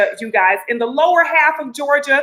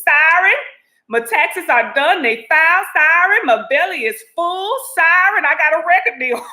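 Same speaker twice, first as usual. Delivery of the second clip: happy fan testimonies; 5 semitones higher than usual. Pretend. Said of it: "Bring us some testimonies".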